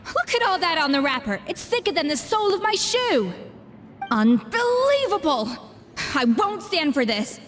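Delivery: a fussy chef's fuming outburst; outraged rant. Acted. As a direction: scold like a chef whose rules were broken. Chef outraged at sugar-coated wrapper.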